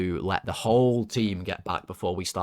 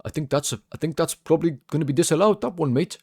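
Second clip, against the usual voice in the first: much higher put-on Geordie accent, admittedly bad; Mark Clattenburg Geordie; 7 semitones higher than usual. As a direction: have a go at a Geordie accent, pitched well up. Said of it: "I can't do Geordie, guys, but I'll try".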